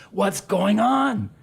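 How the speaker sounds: very slow, high, doting mom voice; lovey-dovey mom. Retold or imitated. Priest imitating friend's doting mom, slow and high. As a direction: croon it like a fussing mother. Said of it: "lovey-dovey mom".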